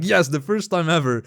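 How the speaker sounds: mildly excited retold cheer, laughing midway; lightly acted excitement. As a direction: replay your gleeful reaction with a laugh. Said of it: "I was so excited".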